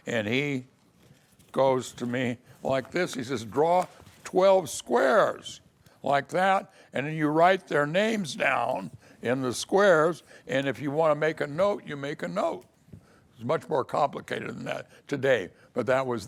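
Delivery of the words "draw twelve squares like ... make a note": put-on older lawyer instructing. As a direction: talk down to the rookie step by step.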